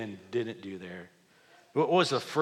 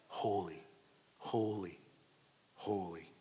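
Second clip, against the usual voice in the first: hushed reverence; 4 semitones lower, 10 dB quieter than usual. Real, not acted. Repeating God's holiness.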